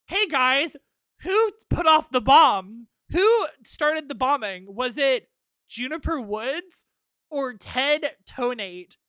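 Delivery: loud, slow teasing host call; mock game show host. Mock host calling out to viewers.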